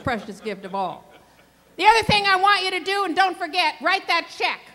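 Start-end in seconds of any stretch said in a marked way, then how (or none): 1.8-4.6 urgent emphatic push. Real, not acted. Urging graduates, fast and loud.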